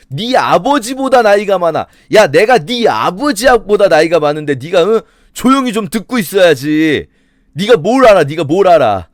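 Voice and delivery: mock-indignant elder telling off a youngster; pulling age rank. Eliphaz, losing the argument, pulls age on Job, mock scolding. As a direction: act out an older man silencing his junior. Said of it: "말하다가 안 통하면 이거 나이 나오거든요".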